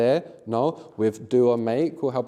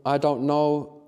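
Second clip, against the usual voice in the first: slow example sentence; much slower than usual. Shown as a demonstration. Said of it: "So you could say, for example".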